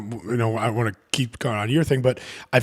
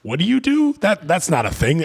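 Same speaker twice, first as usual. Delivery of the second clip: incredulous; 5 semitones higher than usual. Retold or imitated. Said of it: "his buddies were like".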